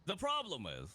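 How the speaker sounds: composed again after laughing; straight-faced, regaining composure; pulling yourself together. Real, not acted. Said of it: "let me compose myself".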